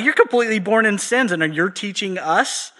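mock the leaders' offended disbelief; indignant leaders. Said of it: "They're like".

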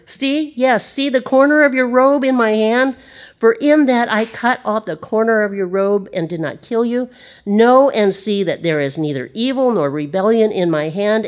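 preacher as David, urgently pleading. Acted. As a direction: beg the king to see the robe.

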